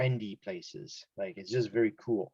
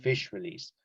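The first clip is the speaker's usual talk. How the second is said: "fish release" a bit higher and longer; stressed key words. Shown as a demonstration. Teacher repeating the words to note, "fish release" stressed. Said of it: "stress those words a bit higher and a bit longer".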